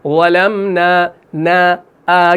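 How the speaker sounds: slow recited ظلمنا with a light final aa; unrounded long نا in ظلمنا; thin alif. Shown as a demonstration. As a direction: hold the نا of ظلمنا thin and open. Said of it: "وہ الف باریک پڑھا جائے گا".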